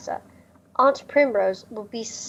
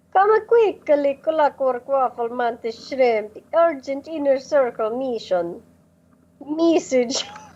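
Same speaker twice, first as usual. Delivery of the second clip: very cheesy, hammy, fake put-on Italian accent; 4 semitones higher than usual. Voicing a Morse code message for the others, in a very cheesy Italian accent. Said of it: "has a very cheesy Italian accent".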